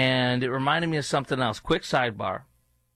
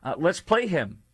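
ordinary talk

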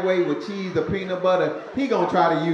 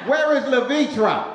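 neighbor yelling out window; 8 semitones higher than usual. Retold or imitated. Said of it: "She always yelling at 'em out the window".

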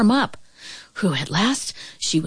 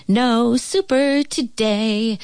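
exclaiming; 5 semitones higher, slower than usual. A narrator's reading. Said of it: "she exclaimed".

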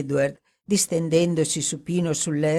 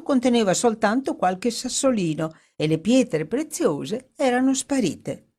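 lightly voiced woman reading aloud, lifted pitch; animated newspaper reading in character; Dorothy reading the article; 4 semitones higher than usual. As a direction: read the story out with lively interest.

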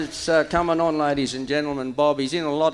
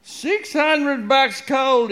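croaking; 5 semitones higher, slower than usual. Retold or imitated. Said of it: "he croaked".

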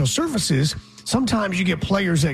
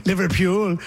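Liverpool accent; 3 semitones higher than usual. Shown as a demonstration. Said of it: "Who are you, a famous singer?".

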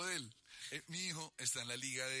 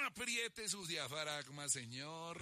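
slow, drawn-out mock straining; acted clenching to get through it; strained effort; 2 semitones higher, much slower than usual. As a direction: squeeze it out as if bearing down. Acts out forcing the voice to sing.

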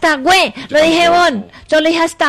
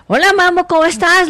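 strong voice; 4 dB louder than usual. Shown as a demonstration. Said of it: "con voz fuerte".

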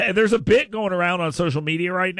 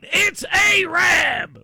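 high, loud, drawn-out yell of "It's Arab!"; trucker's scream; 13 semitones higher, 5 dB louder, much slower than usual. Retold or imitated. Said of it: "somewhere screaming".

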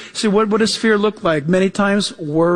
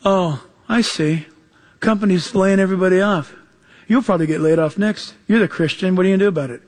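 mocking coworker; 2 semitones lower than usual. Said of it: "when people say to you".

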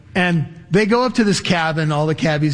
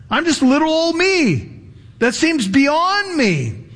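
higher, wondering voice of disbelief; doubting believer; 7 semitones higher than usual. Retold or imitated. Ephesian Christian doubting he could be that, higher wondering voice. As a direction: marvel then doubt as a humble reader.

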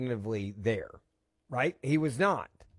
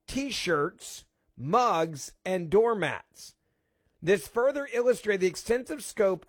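raised, emphatic radio read of a document; news read-out; 5 semitones higher than usual. Real, not acted. Host reading leaked documents to listeners, emphatic read-out.

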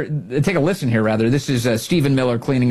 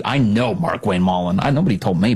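normal talking voice

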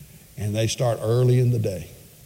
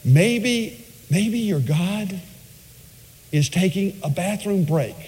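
sarcastic taunt; 6 semitones higher, 3 dB quieter, slower than usual. Retold or imitated. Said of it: "He, he even says".

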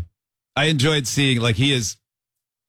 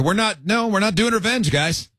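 parental admonishing; 5 semitones higher than usual. Retold or imitated. Parent retelling own scolding of kids.

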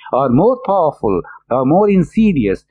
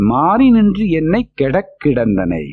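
Tamil verse chanted fast; verse recital; much faster than usual. Acted. Teacher reciting the hymn line for his students, chanting.

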